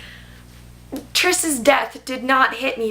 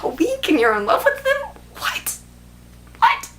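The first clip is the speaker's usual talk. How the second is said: incredulous disbelief. Retold or imitated. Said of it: "I'm like".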